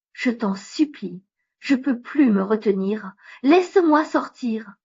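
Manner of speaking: desperate pleading, bursting; begging, can't hold it; needing the toilet. Acted.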